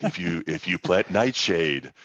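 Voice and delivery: mock very deep voice. Quoting a man with a better radio voice, imitating a very deep voice. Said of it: "he says it like in this very deep voice".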